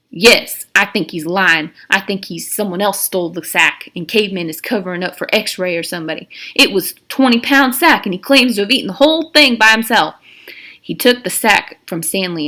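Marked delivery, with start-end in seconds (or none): 0.1-10.1 louder, pressing the case; Mister Sir accusing. Acted. Mister Sir to the warden, louder accusation. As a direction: insist he's lying.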